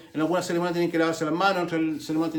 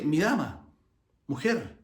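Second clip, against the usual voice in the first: "Mi dama, mujer" said lower, measured and courtly; formal address; 3 semitones lower, 3 dB quieter, slower than usual. Retold or imitated. Jesus answering his mother at the wedding: formal, respectful "Mi dama". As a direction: address her politely, like a gentleman to a lady. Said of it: "un tono más formal".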